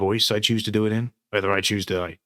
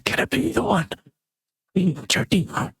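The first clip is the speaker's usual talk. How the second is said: spooky voice; 10 semitones higher than usual. Acted. Eerie put-on voice test.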